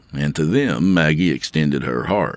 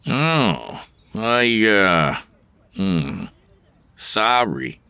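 halting, embarrassed stammer; awkward; 4 semitones higher, much slower than usual. Acted. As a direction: fumble for words after a blunder. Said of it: "It was an awkward conversation".

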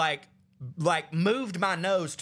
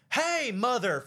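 mock yell, higher pitched; retold angry call; 6 semitones higher, slower than usual. Sister calling out to her brother from behind, mock angry call.

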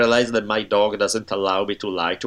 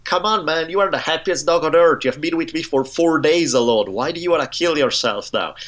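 higher coaxing plea to the dog; talking to the dog; 6 semitones higher than usual. Retold or imitated. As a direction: cajole the sad pet, lightly voiced. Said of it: "And I'm like".

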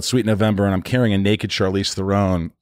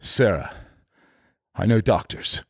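lower, halting, understated movie line; Keanu; 3 semitones lower, slower than usual. Retold or imitated. Actor retrying an emotional scene, understated impression. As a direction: say it low with a long pause, barely emotional. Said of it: "he's supposed to be really emotional".

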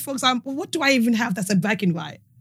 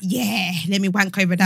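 lower, subdued imitation of a man; mock uninterest; 4 semitones lower than usual. Host voicing men unmoved by black women, mock uninterest. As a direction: quote it low with little eagerness. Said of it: "Nobody's like".

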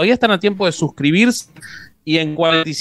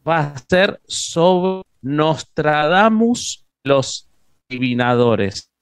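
call dropping out; slower than usual. Real, not acted. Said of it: "te estás cortando horrible".

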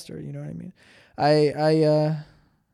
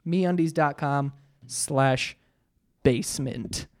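slow spelled-out URL; 4 semitones lower, 6 dB quieter, slower than usual. Shown as a demonstration. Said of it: "Get twenty percent off".

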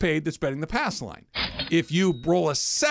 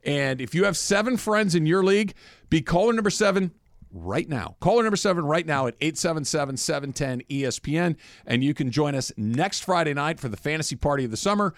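upbeat ad read with announcer energy; radio contest promo. Acted. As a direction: sell it like a live radio spot. Reads a casino contest ad.

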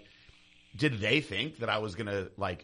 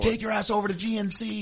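high, raised hammed-up dismissal; mock brush-off; 10 semitones higher, 4 dB louder than usual. Agent sending customer to GNC, mock exasperation. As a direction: send them off in a raised voice.

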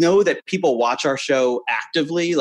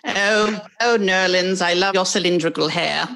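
higher put-on Mark Cuban voice; 6 semitones higher than usual. Voicing Cuban to Nerlens on the show, higher cartoon voice. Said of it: "Which one of you is Mark Cuban?".

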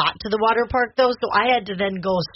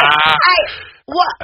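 shocked; 7 semitones higher, 8 dB louder than usual. Retold or imitated. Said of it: "I'm like".

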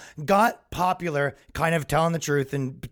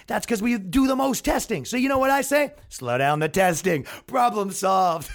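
lightly imitated politician, pitched up; mock rally boast; 5 semitones higher than usual. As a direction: build higher like a rally speaker reaching the punchline. Retelling Trump's boastful rally speech.

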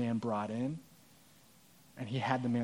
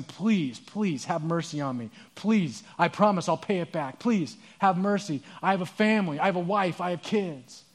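pleading debtor; 3 semitones higher than usual. Retold or imitated. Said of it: "begs him".

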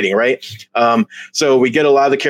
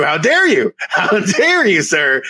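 half-joking indignant protest, a touch higher; mock outrage; 4 semitones higher, slower than usual. Fan scolding the comic's writers in mock outrage. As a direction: play-act being scandalized by the writers. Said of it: "I'm getting very upset".

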